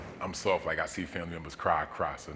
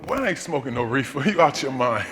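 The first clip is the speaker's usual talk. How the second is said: scolding grandma, pitched up; 7 semitones higher, 8 dB louder than usual. Retold or imitated. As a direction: play the stubborn grandmother.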